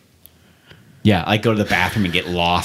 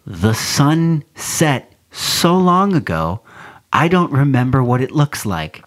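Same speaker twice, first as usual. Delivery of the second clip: despairing; 4 semitones higher, slower than usual. Retold or imitated. Exhausted fan at long game.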